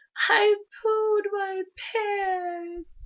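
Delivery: put-on tearful panicked wail, very high, loud, drawn-out pants. Retelling answering her mom's worried question, imitating her past self crying. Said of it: "And I was crying".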